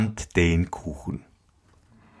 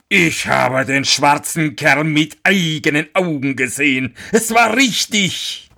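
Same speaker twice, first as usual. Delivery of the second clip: high put-on miller voice, climbing higher at the end; agitated exclamation; 6 semitones higher than usual. A narrator's reading. Miller swears he saw the devil flee, agitated. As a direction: insist on it, pitch soaring.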